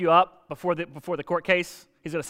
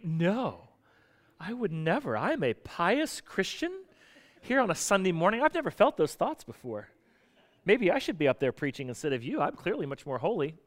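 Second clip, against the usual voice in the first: mock pious indignation; 5 dB quieter than usual. Churchgoer objects to preacher's extreme thought, mock pious. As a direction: play the offended pious churchgoer, quietly. Mimics a holier-than-thou churchgoer.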